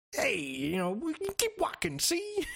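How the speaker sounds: put-on hammy American accent, high-pitched and slow. Imitating a game character who talks that way: Polly's hammy American accent. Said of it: "if you like that type of accent".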